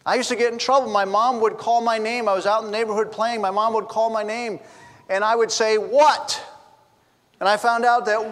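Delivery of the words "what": mock yell back to mom; imitating a kid hollering back; retold yell. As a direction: call out a mildly raised, higher what. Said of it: "I would yell".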